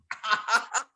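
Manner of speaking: short chuckle at his own remark; amused little burst of laughter. Real, not acted. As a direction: let out a brief, amused laugh. Own laugh after his joke.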